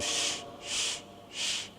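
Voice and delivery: very soft, whispered shushing; urgent hushing. Retold or imitated. Father silencing his son in the street, hushing. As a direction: hush him under your breath.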